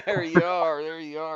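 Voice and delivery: laughing through the words. Real, not acted. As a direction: chuckle while saying it. Laughing at a dirty joke.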